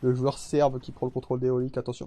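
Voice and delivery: imitation légère de commentateur sportif enthousiaste. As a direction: annonce l'action comme un commentateur télé. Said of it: "en mode commentateur sportif". (ton de commentateur sportif)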